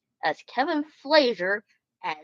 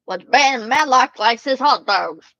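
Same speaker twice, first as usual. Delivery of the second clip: louder, eager announcement; excited raised voice; 3 semitones higher, 7 dB louder than usual. Real, not acted. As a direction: call it out with glee. Excited about Matlock.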